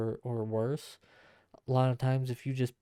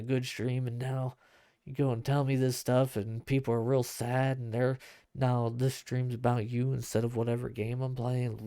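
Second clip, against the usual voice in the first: mock whiny streamer.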